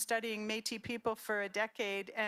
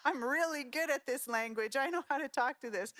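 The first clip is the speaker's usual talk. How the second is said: higher, bright proud boasting; proud father; 4 semitones higher than usual. Retold or imitated. Father telling Ted about his French, proudly excited.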